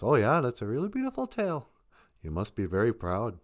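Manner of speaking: a hint of a patient bear humouring a show-off; easygoing bear. Bear politely answers the beaver.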